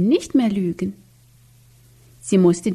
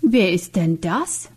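usual speaking voice

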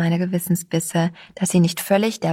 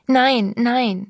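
crying out; 5 semitones higher than usual. A narrator's reading. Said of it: "schrie Sabine auf".

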